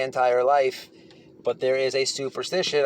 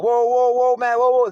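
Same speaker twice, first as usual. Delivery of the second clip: louder and higher, breaking it up; calling whoa; 8 semitones higher, 6 dB louder than usual. Retold or imitated. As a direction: shout to split them apart. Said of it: "they were like".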